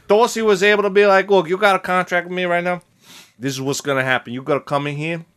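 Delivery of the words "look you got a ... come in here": low, softer Italian-American boss laying down terms; Italian-American wiseguy accent. Acted. Dorsey dictating contract terms to Frank, Italian-American accent. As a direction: lay out the deal like a mild Italian-American heavy. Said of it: "how's this accent working for you guys".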